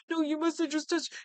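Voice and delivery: imitating a panicking suspect; panicking killer. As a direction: start the panicked denial. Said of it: "This guy is panicking".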